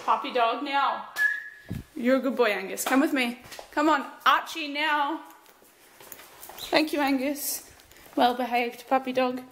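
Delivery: slow coaxing pet talk; talking to dogs. Real, not acted. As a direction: gently coax the puppy along.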